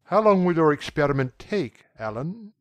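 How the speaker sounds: calm, indifferent. A narrator's reading. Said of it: "in a calm, indifferent voice".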